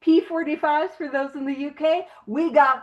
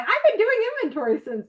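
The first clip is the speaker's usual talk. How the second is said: mock weary sigh; 7 semitones higher, faster than usual. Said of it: "I love everyone like".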